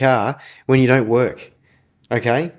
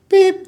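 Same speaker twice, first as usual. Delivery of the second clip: censor beep; 6 dB louder than usual. Shown as a demonstration. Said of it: "I'm not allowed to say his name".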